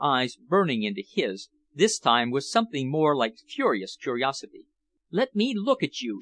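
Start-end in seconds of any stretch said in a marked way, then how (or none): 5.1-6.2 crying out. A narrator's reading. Woman demanding to look at him, crying out. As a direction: cry out in understated alarm. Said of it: "she cried".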